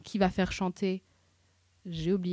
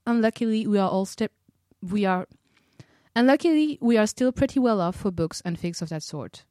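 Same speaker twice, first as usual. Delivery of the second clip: loud reading; 8 dB louder than usual. Acted.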